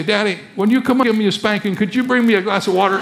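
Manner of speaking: put-on quick, high, innocent child's request; little boy. Boy asks his angry father for water, innocent child voice. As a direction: ask it sweetly as if nothing is wrong.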